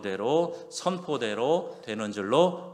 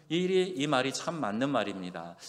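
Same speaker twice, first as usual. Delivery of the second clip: ordinary delivery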